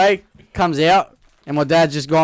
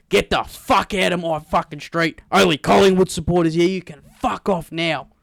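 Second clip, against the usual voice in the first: retold angry dad; 3 semitones higher than usual. Friend's dad ordering a young boy off his street, angry. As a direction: tear into a kid, mildly hammed-up.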